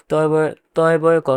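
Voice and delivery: তয় বয় ক spelt letter by letter, with the b named; name each letter in তয় বয় ক; spelling out. Shown as a demonstration. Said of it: "উচ্চারণের সময় হবে তয় কয়".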